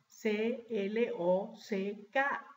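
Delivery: letter by letter, slowly; Spanish letter names, evenly spaced; spelling in Spanish. Shown as a demonstration. Teacher spelling clock in Spanish for class, letter by letter. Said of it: "Les deletreo".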